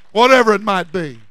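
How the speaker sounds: loud, falling tail of a sermon climax; preaching cry. Real, not acted. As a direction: call it out, letting the pitch fall.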